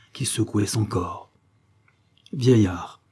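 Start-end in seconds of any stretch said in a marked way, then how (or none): 2.3-3.0 a lightly voiced haughty queen. Stranger addressing the old druid, mildly haughty "Vieillard". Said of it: "en lui jetant un regard altier".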